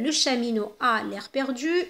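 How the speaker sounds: slow, clear reading of the example; slow model sentence. Shown as a demonstration. Teacher modelling the sentence before the pronoun swap, slowly. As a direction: read it out for the pupils. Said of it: "إذن نقولوا".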